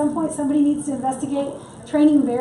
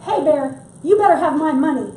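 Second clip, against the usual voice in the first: firm, raised-voice warning to a bear; mock yell; 5 dB louder than usual. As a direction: playfully yell it to scare off a bear. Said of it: "yell at bears to scare them away".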